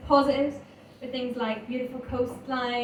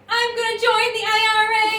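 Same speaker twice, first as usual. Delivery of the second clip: put-on higher, louder drunken sing-song threat; drunken shout; 10 semitones higher, 7 dB louder than usual. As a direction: bellow it like a drunk granddad. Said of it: "he used to start shouting".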